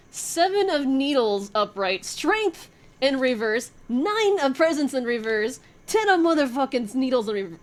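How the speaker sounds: rising thrill over each card; excited. Real, not acted. Excitement building over the cards.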